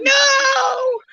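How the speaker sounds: sudden high cry of no; shouted no. Retold or imitated. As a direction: yell it out high and upset. Retold herself refusing, crying.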